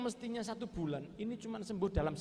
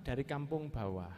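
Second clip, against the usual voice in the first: bicara pelan; 5 semitones lower than usual. Retold or imitated. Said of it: "ngomongnya pelan". (menirukan jawaban tamu yang pelan)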